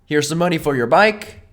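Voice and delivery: light Tom Cruise voice; a hint of Tom Cruise charm; Tom Cruise impression. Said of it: "That's a good Cruz".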